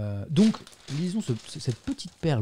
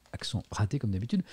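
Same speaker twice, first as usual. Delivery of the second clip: ordinary delivery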